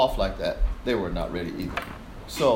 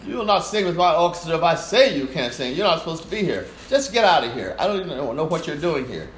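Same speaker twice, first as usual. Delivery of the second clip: angry conductor; 4 semitones higher than usual. Retold or imitated. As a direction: dismiss her like an arrogant maestro. Conductor yelling at singer.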